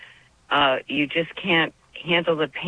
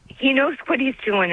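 emotional; 9 semitones higher than usual. Real, not acted. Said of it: "I'm sorry to get emotional".

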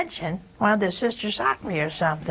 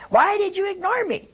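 "ignore" echoed much higher, incredulous; baffled surprise; 11 semitones higher than usual. Retold or imitated. Woman echoing her friend's phone accusation, much higher in disbelief. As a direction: repeat the accusation in stunned disbelief. Huh? What?.

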